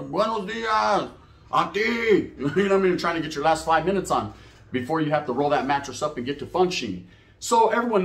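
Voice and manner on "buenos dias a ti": drawn out, sing-song good morning; teasing a sleepy cellmate with a slow, high hello; mock cheery greeting. Prisoner mockingly greets his sleepy cellmate, slow and sing-song.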